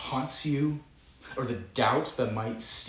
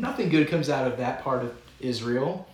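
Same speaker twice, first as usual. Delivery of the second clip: sarcastic scoff; 4 semitones higher, 5 dB louder than usual. Retold or imitated. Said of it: "more sarcastic ones of the bunch".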